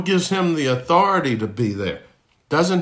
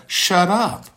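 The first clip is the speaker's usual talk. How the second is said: sharp high rebuke, pitched way up; rebuke to a demon; 8 semitones higher than usual. Acted. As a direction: cut the demon off hard, like a command. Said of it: "he says to the demon speaking".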